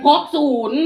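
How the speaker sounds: high, very loud announcement; loud repeat on request. Shown as a demonstration. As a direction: call it out for everyone to hear. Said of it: "เอาซ้ำอีกนี่ ซ้ำนี่ให้ได้บ่".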